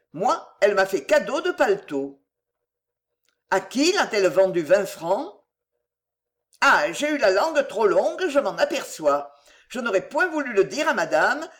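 lightly voiced old gossip, defensive; a hint of a huffy old servant; indignant old countrywoman. La mère Fouillette se défend. (vieille commère vexée, voix légère)

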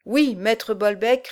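slow obedient recitation; dutiful recitation. Acted. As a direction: recite it back slowly and dutifully. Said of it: "récitèrent les deux amis".

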